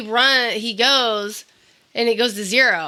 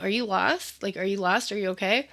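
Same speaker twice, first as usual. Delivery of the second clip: soft, gentle questioning; lightly acted, quiet and caring; retold kindly concern; 6 dB quieter than usual. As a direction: check softly on a lost child. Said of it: "he's really nice".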